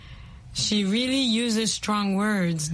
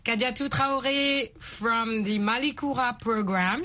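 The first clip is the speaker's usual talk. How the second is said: show host intro; 3 semitones higher than usual. Acted. Host greeting viewers at the start of the show, upbeat. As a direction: welcome the viewers warmly.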